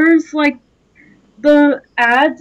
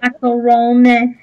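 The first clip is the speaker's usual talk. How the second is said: funny creepy voice; 3 dB louder than usual. Acted. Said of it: "funny but creepy voices".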